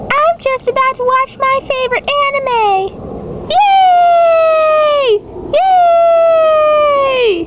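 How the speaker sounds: put-on squealing, very high, excited girl; high girly voice. Girl gushing about her favorite anime, high and squealy. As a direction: chirp it up like a giddy schoolgirl.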